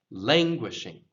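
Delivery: "languishing" with a strong first syllable; stress on LANG. Shown as a demonstration. Teacher models emphasis for learners, first-syllable stress. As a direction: lean on LANG in "languishing", then let it fall. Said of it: "emphasis goes on the first syllable".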